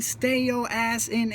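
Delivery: slow, deliberate words; emphatic plea. Real, not acted. Urging kids to stay in training, slow and deliberate. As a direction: lean hard on stay. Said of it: "I can't emphasize that enough".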